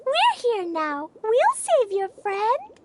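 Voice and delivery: slow, gentle reassurance; comforting. Acted. Promising the sad droplet to save its friend, slow and gentle. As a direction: soothe a little creature that's upset.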